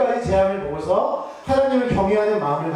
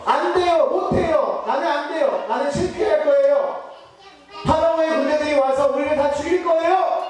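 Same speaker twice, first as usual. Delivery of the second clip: whining doubter; 6 semitones higher than usual. Retold or imitated. A fearful follower whining to Moses, high and fretful. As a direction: plead it's hopeless, voice up high. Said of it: "라고 얘기하는 그런 부정적인 말".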